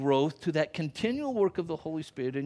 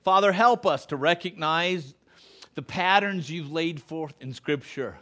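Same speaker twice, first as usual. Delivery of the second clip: closing prayer; 3 semitones lower than usual. Acted. Pastor praying over his standing congregation, earnest and hushed.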